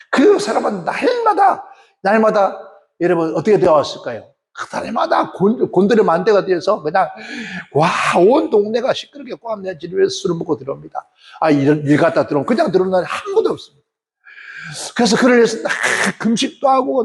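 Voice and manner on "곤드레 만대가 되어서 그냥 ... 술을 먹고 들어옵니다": normal talking voice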